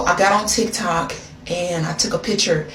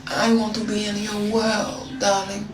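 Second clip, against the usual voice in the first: put-on soft, flirty French accent; 4 dB quieter than usual. Calling the man she dates, soft French accent. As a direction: murmur it sweetly in a fake French accent. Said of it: "I spoke in his French accent".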